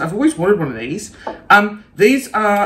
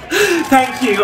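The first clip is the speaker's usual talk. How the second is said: laughing thanks; 5 semitones higher than usual. Pretend. Pretend star thanking the press, laughing. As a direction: thank you through a laugh.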